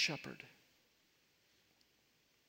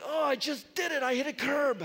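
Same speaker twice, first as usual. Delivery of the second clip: higher, louder, laughing at his own mistake; half-laughing groan at himself; a man admitting he hit a curb after teasing his wife; rueful self-mockery; 8 semitones higher, 7 dB louder than usual. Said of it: "I was like".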